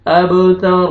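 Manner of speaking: अब तर ending on a full, thick R; heavy ra at pause. Shown as a demonstration. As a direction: bounce the B, then close on a heavy R in अब तर. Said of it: "रॉ को पुर करेंगे". (अब तर का रॉ पुर करके)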